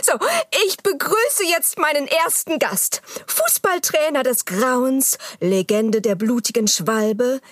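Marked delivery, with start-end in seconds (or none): 3.2-7.4 gruselige Ansage. Acted. Gruselige Gastansage.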